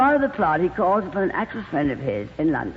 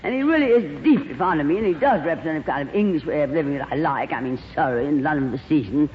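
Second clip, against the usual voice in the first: gushing glamorous actress; 2 semitones lower than usual. Acted. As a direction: coo over him like a diva. Plays Lorraine.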